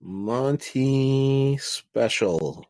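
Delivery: slow, announced name; drawn-out announcer voice. Pretend. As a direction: stretch out Monty Special slowly like an announcer. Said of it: "rename it Monty Special".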